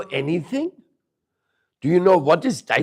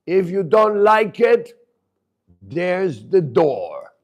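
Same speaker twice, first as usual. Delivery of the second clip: stern angry father; 2 semitones higher, 4 dB louder than usual. Retold or imitated. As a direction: bark orders like a tyrant dad. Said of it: "heard his father speak like that".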